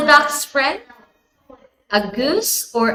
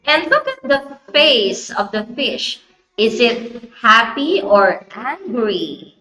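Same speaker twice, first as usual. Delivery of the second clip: put-on reading to a toddler. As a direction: read it like a picture book for a toddler. Storytelling to a young child.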